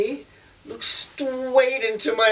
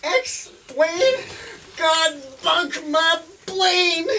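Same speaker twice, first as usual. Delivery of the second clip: put-on glamorous old Hollywood star; 5 semitones higher, slower than usual. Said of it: "pretend to be Margaret Gladfly".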